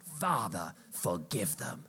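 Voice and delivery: hushed prayer after a defiant vow; soft prayer. Shown as a demonstration. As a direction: drop into a quiet prayer. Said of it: "But you gotta get".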